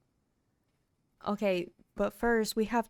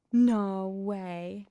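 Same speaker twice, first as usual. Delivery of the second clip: louder disbelieving exclamation; surprised; 5 dB louder than usual. Real, not acted. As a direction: blurt it out in disbelief. Surprise at the odd NPC group.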